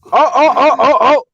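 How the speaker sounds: high, loud hammed-up oh oh, breaking into a laugh; mock startled ohs. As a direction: overplay being startled then laugh. Echoing friend's mock startle.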